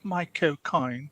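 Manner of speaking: slow Cockney "Michael Caine"; Cockney accent. Shown as a demonstration. Host repeating the name for co-hosts, slow Cockney accent. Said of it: "It's also Cockney".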